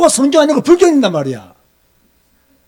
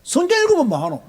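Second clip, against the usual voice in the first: higher-pitched sarcastic scoff; mocking sneer; 5 semitones higher, 4 dB quieter than usual. Preacher repeating the scoffers' line to the congregation, sarcastic. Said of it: "이렇게 비꼬는 사람들이".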